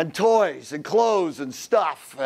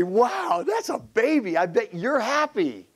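mock enthusiasm; 5 semitones higher than usual. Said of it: "you can just say".

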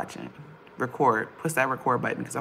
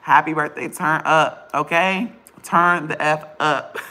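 loud hype; 5 dB louder than usual. Real, not acted. Hyping sister's birthday.

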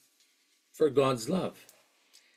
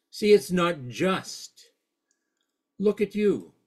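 agitated journalist; 2 semitones higher than usual. Retold or imitated. Journalist challenging Mother Teresa, understated agitation. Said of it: "Really being agitated at this point".

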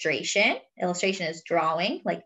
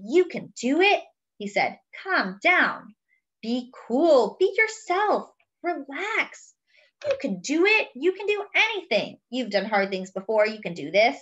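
pep talk; 3 semitones higher than usual. Acted. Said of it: "he gave himself a pep talk".

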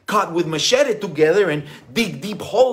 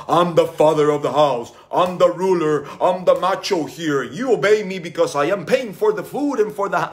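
louder, bossy macho father; mock authoritarian father; 5 dB louder than usual. Father mocking the bossy dad role to son, louder. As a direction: lay down the law like a mock tyrant dad. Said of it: "instead of just saying".

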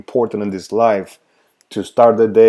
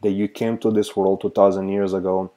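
prayer; 2 semitones lower than usual. Acted. Leads a prayer.

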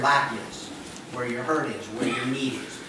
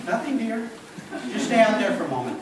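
lightly acted, higher innocent reply; mock innocent; 5 semitones higher than usual. Husband hiding a mishap from his wife, mock innocent. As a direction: cover up with a slightly higher voice.

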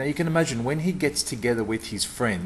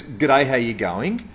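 precise greeting; 4 dB louder, slower than usual. Retold or imitated. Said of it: "talks to my father in a very precise and very different way".

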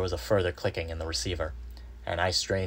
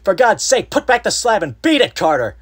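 high, loud, desperate pleading; piteous cry; 13 dB louder than usual. A narrator's reading. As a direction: cry out a frantic warning. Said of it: "a piteous cry from Warren".

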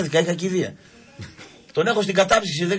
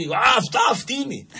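put-on drunk shouting; 6 semitones higher than usual. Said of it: "Βρίζει, φωνάζει".

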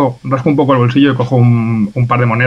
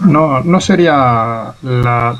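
put-on Italian accent; 2 semitones higher, much slower than usual. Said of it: "intento forzar un poquito un acento italiano".

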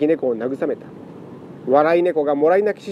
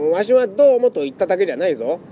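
put-on flustered old man; 7 semitones higher than usual. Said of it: "慌てて".

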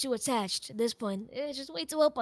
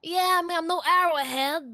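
pointedly aggravating; 5 semitones higher, 7 dB louder than usual. Real, not acted. Builder comparing himself to Arrowhead, pointedly aggravating. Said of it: "Why are you saying it like that".

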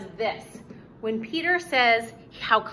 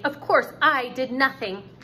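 louder, acted indignant retort; exclaiming; 5 dB louder than usual. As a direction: read it as Wendy's protest, with force. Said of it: "she exclaimed".

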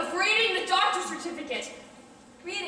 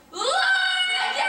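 demanding; 12 semitones higher than usual. Acted. Woman demands he look.

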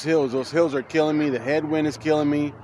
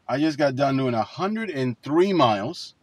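from inside a car. Real, not acted. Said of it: "talking to you from inside my car".

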